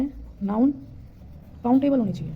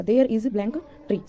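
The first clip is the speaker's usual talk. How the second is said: slow dictation; much slower than usual. Shown as a demonstration. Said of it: "rereads example sentence slowly".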